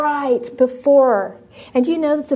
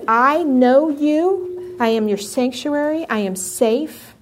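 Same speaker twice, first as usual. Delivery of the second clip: tender; slower than usual. Acted. Voicing God's tender words.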